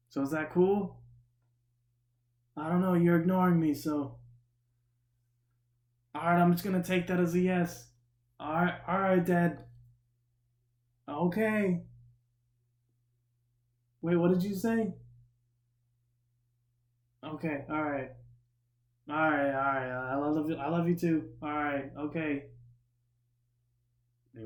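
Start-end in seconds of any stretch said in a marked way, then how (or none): 0.1-14.9 put-on high, loud kid calling to dad; mock screaming. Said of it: "screaming at the top of his lungs". 17.2-22.5 lightly raised, higher sign-off; mock calling out. Imitates friend answering absent dad.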